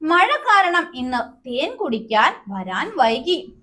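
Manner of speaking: put-on slow, sing-song child butterfly voice; a small butterfly telling why it is late, slowly; teacher reading the little butterfly's reply, slow; little butterfly explaining. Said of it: "കുഞ്ഞു പൂമ്പാറ്റ".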